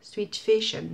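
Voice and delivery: English with a French accent; lightly French-flavoured English. Real, not acted. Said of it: "Vous avez vu mon accent anglais?".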